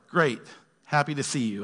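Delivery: understated, level delivery that could pass for snark; dry, ambiguous politeness; snarky-sounding text. Acted. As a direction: read it like an unpunctuated text message. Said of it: "Why the snarky tone?".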